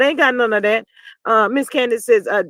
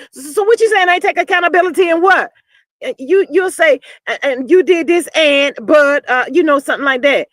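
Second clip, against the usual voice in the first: put-on drunk reenactment; 3 semitones higher than usual. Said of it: "act like she was acting that night".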